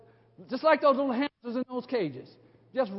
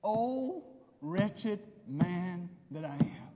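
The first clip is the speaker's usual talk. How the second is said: anguished cry; 6 semitones lower, 8 dB quieter, much slower than usual. Acted. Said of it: "Can you hear him? ... That's a cry".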